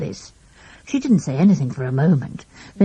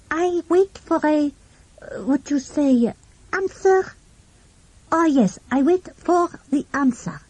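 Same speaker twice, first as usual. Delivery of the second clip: put-on French accent; 9 semitones higher than usual. A narrator's reading. French boy answering policeman.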